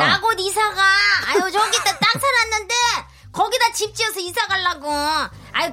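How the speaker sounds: brash, booming neighbor lady; loud ajumma. Acted. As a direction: brag like a pushy auntie. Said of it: "대찬 아줌마는 정말 만나는 사람마다".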